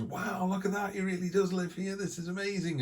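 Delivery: high, wide-eyed gushing American wonder; excited American tourist. Retold or imitated. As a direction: gasp it out like a starstruck tourist seeing Mickey. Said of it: "and he goes".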